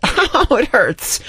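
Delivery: high-pitched comic wail of agony; mock pain. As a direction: complain as if the accent hurts. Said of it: "I was like".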